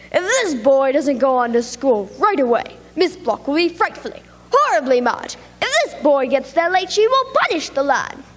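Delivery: a lightly voiced cat, insisting; hint of a bossy cat; arguing cat. Cat argues with other cat.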